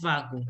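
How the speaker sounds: Vagu ending on the vowel; silent N. Shown as a demonstration. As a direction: say just Vagu, no N at the end. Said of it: "don't have to pronounce the N".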